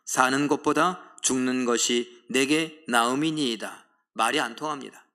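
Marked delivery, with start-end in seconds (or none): 0.1-3.9 slow, measured congregational reading; scripture reading. Shown as a demonstration. Congregation reads Jonah's line aloud, slow. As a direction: read the verse together, slowly. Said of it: "시작".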